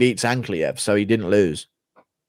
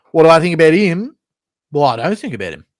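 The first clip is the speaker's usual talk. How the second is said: Whitaker impression; 7 semitones higher, 7 dB louder than usual. Whitaker asked about a rival, weird swooping voice. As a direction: pipe up with the question, then swoop through the answer. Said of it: "Whitaker has a very weird voice".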